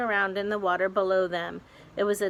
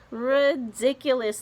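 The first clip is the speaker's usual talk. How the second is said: shouted; 6 semitones higher, 4 dB louder than usual. A narrator's reading. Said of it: "they shouted".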